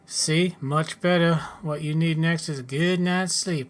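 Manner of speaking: a touch of a folksy settler character; lightly voiced farmer. Settler tells newcomer where to sell spares, lightly voiced farmer. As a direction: lightly act a helpful farmer advising a newcomer.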